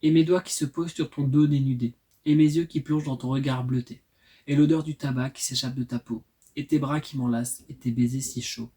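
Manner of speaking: measured poetry recital, line by line; poem reading. Acted. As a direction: read it as verse, easing off at the end. Reads own poem aloud.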